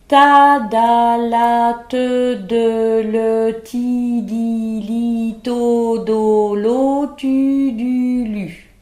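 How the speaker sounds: loud, rapid syllables run together without a breath; all on one breath. Shown as a demonstration. Teacher running every syllable on one breath, loud. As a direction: push the whole chain out on one exhale. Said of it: "essayer de les dire sur une même expiration".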